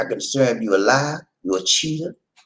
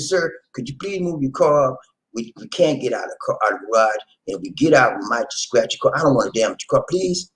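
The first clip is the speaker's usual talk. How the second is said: polite request. Retold or imitated. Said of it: "politely knocked on the door".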